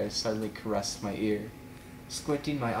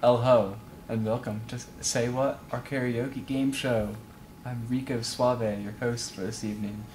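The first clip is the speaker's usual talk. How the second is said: put-on sexy Spanish accent. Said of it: "Sexy Spanish voice".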